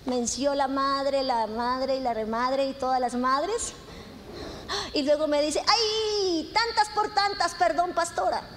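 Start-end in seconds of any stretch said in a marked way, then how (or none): 5.7-8.5 higher-pitched mock apology to the pastor; lightly acted "oops, sorry" voice; retold sheepish apology. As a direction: imitate a passenger excusing their swearing. Passenger's apology after swearing, retold.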